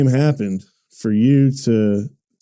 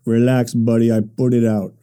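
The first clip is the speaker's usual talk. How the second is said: lightly attempted Russian accent; a hint of Russian accent, laid-back. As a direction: try an unsure impression of a Russian guy. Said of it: "I don't know how my Russian voice is".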